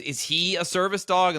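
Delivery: mock busybody. Woman voiced again.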